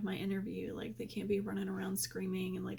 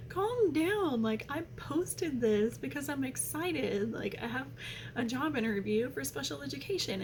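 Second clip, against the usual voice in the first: exasperated retort; 4 semitones higher than usual. Retold or imitated. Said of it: "And I was like".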